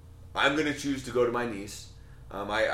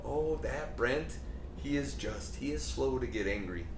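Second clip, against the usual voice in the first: mild, hushed compliment, slowed down; admiring remark; 6 dB quieter than usual. Retold or imitated. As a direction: murmur it like quiet praise of a friend. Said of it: "someone looks at you and says".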